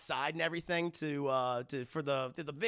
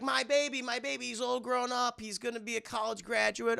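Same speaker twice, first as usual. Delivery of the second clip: high, doting mother; proud mom; 6 semitones higher than usual. Retold or imitated. Mother welcoming her son home, high doting coo.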